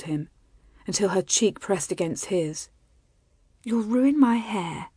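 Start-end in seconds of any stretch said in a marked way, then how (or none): 3.6-4.9 light, slow playful tease; teasing. A narrator's reading. Wife fending off her nuzzling husband, teasing. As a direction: draw it out as a gentle, playful tease. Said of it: "she teased".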